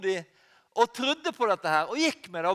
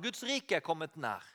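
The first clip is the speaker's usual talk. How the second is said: softer, falling, almost confiding; soft repeat; 5 semitones lower, 7 dB quieter than usual. Acted. Preacher repeating Jesus' words, softly and intimately. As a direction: let it drop softly as a quiet echo. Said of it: "Det sa han".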